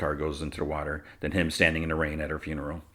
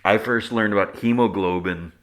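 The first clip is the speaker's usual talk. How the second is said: real amused laugh breaking into speech, louder; 4 semitones higher, 7 dB louder than usual. Real, not acted. Host explains a childhood word memory, laughing. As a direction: explain yourself through a laugh. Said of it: "I'm just laughing".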